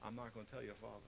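softly voiced, low confiding mother; lightly voiced mother promising quietly; quiet hushed mother. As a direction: hush it like a secret kept from dad. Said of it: "she said to me".

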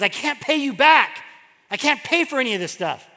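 imitated exasperated protest, starting high and loud; irritated. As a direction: protest in mock irritation, easing off at the end. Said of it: "he was getting irritated".

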